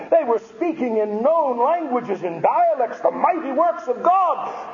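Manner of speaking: fervent pulpit voice; impassioned preaching. Real, not acted. Preaches at full force.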